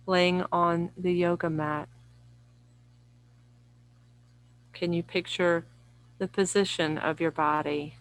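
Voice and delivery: unhurried yoga nidra guidance, long pauses between phrases; guided meditation. Real, not acted. Yoga teacher guiding listeners lying down through relaxation, calm guided meditation. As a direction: lead listeners gently inward, phrase by phrase.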